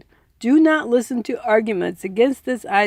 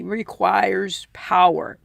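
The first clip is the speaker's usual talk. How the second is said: whisper; 3 semitones lower, slower than usual. Acted. Whispered end of book sentence.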